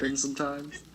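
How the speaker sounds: a quick hammed-up pirate line. Shown as a demonstration. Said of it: "Do you have a pirate voice?".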